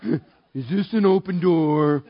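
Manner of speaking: slow, drawn-out mock dread; reluctant wondering. Pastor eyeing the stranger beside him, slow reluctant wondering. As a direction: stretch it out as a wary question. Reluctantly asking himself in prayer.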